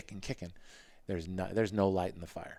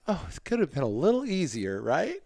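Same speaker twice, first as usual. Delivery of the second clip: higher, louder mock cheer; rueful sarcastic quip, pitched up and loud; sarcastic aside; 8 semitones higher, 7 dB louder than usual. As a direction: sing out the irony about the tough field. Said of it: "I'm going".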